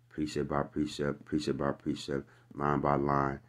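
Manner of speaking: lilting mock nursery-rhyme chant; singsong nursery rhyme. Shown as a demonstration. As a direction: recite it like a child's rhyme. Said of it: "is a nursery rhyme for babies".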